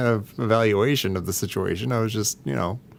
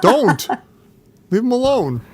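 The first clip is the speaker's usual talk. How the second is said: high, squealing plea to leave the toys; whiny protest; 12 semitones higher, 4 dB louder than usual. Pretend. Tom, higher and louder, begs a friend to leave his figures alone. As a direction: play the hurt collector guarding his figures.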